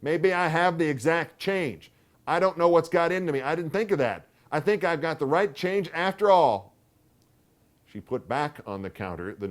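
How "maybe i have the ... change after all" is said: higher, fussing aunt voice; flustered, talking herself round; fussy old aunt. A narrator's reading. Aunt rethinks aloud.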